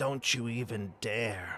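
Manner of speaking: hushed whisper. Voicing a card player who leans toward another player at the table: whispering. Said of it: "whispers to you".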